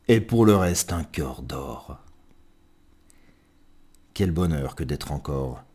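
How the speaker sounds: lilting recital with rhymes set apart; poem reading. Acted. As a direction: tell it as a fond little verse portrait. Reads a poem aloud. (lecture de poème chantante et posée)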